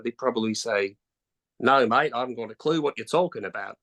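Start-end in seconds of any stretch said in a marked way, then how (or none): 1.6-3.8 put-on Australian accent, casual and matey; bad Australian accent. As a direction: attempt an Australian accent, not very well. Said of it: "a really bad Australian accent there".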